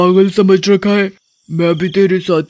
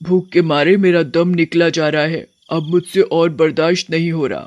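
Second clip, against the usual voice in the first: impatient witch. Acted.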